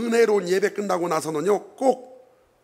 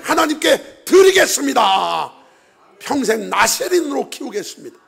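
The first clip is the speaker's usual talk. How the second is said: fervent vow; 5 semitones higher, 5 dB louder than usual. Retold or imitated. Hannah's vow prayer.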